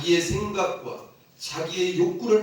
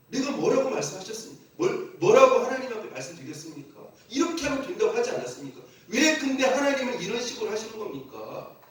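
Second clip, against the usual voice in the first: higher, fast, arguing back at God; 따지듯이; 5 semitones higher than usual. Retold or imitated. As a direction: press God with indignant questions, like Jonah. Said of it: "하면서 막 따지는 거예요". (요나가 하나님께 따지듯 빠르게 항의하며)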